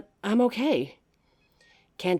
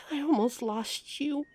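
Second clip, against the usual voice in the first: high, breaking into tears; sigh, then crying voice; tearful; 8 semitones higher, 4 dB quieter than usual. Acted. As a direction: let the voice crack with grief. Nearly lost partner, breaks down.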